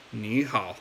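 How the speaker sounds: "ni hao" with both syllables dipping low; unchanged "ni hao", no rise on "ni"; two third tones. Shown as a demonstration. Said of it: "third tone, you didn't do the tone changing rule".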